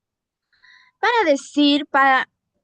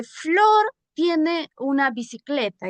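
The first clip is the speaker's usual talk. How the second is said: slow example; 2 semitones higher than usual. Shown as a demonstration. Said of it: "le quiero decir Violeta".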